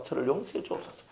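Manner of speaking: hushed plea for forgiveness; acted repentant prayer. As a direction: pray softly, as a humbled servant. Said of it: "이렇게 하면 이건 종의 자세".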